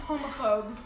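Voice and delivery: a lightly deepened male character; low guy voice. Acted. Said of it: "That's gonna be his voice".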